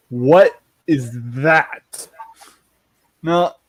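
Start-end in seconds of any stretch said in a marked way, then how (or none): 0.1-2.1 put-on drawn-out, wary kid asking; a light hint of a wary kid; slow suspicious question. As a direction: stretch it out, squinting at the pan.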